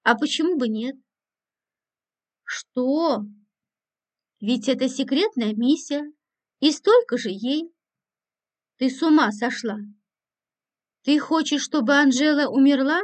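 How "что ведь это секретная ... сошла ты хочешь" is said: ordinary delivery, nothing marked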